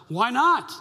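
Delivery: a loud blurted "Why not?"; mock shout from the pew. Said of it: "And the guy would go".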